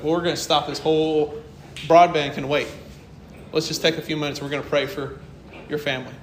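gentle reassurance. Retold or imitated. Comforting grieving coworker on phone.

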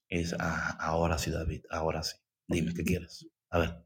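low, soft, patient reply; calm Lord's voice. Retold or imitated. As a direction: answer gently like a patient father. God voiced answering calmly.

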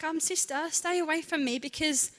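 telling the mean friends off; sassy comeback. Pretend. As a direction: give it sass like a confident girl. Imagined sassy retort to friends.

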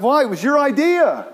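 high, swooping disbelief; baffled chicken protest. Acted. Chicken questioning the pig who backed out, baffled.

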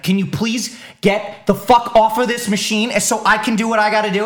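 replaying his gym blow-up, half-serious; retold snapping. Retelling how he snapped at the gym guy, mock angry. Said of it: "I actually snapped on somebody".

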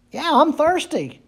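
"Yeah, I'm thirsty" lifted high and light; eager confession. Shown as a demonstration. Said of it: "we would have to say that we should say".

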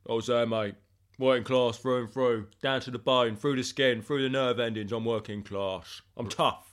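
lightly hammed-up working-class hard man; mock grizzled veteran's boast; put-on tough-guy voice. Claiming he was there, put-on tough voice. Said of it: "the voice suddenly breaks".

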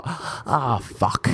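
last gasp regret; dying breath. Pretend. Dying man on his last breath, quiet curse. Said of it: "you take the last sip of air and you go".

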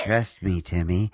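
mock sultry, smug tone; hammed-up knowing purr. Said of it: "Why'd you have to do your sultry voice".

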